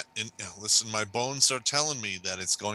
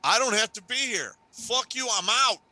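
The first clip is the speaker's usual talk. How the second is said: defiant outburst; 4 semitones higher than usual. Retold or imitated. Voicing Texas seceding.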